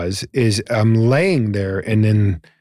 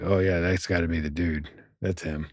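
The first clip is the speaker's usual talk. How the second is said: awed hush; 6 semitones lower, 9 dB quieter than usual. Retold or imitated. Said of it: "I was like".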